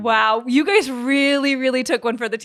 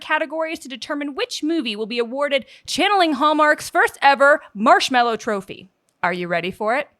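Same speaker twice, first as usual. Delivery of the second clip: mock sports announcer hype; sportscaster voice. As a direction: announce it like a game broadcast. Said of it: "give us your best sportscaster voice".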